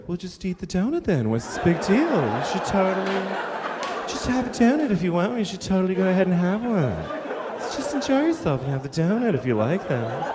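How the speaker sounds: lightly voiced airy, dismissive advice; breezy skinny friend. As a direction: casually brush off the problem. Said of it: "your skinny friend's like".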